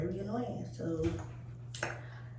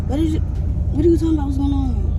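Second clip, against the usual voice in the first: louder, fast sassy comeback; sassy yelling; 4 semitones higher, 4 dB louder than usual. Pretend. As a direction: snap back with attitude. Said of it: "You in here yelling and stuff".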